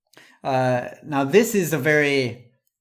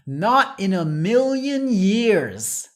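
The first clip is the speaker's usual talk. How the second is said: slow, higher and louder, NOT stressed; very forceful; 5 semitones higher, 4 dB louder, slower than usual. Shown as a demonstration. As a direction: refuse with full force, leaning on NOT. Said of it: "in a very forceful way".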